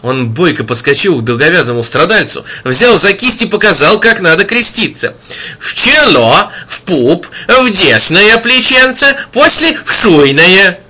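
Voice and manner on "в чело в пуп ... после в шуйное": put-on high, slow old voice teaching; old man instructing. A narrator's reading. Old man teaching the healed man to cross himself. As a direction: coach him gently like an old peasant.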